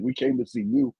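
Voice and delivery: high, breathy-free wife voice; a hint of the wife speaking; lightly voiced wife.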